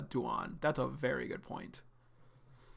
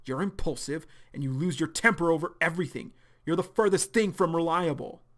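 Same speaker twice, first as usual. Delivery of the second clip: cold belittling; 3 semitones higher, 5 dB louder than usual. Acted. Arlo coldly belittles John.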